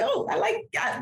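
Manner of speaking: high, pleased "oh" of flattery; delighted reaction. Retold or imitated. Mother reacting to daughter's compliment, high playful delight.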